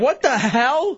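loud, drawn-out shocked cry; startled. Real, not acted. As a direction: react as if spooked. Startled by creepy caller.

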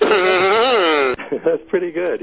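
laughing, high and slow. Real, not acted. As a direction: laugh through the praise. Laughs at the zombie tape.

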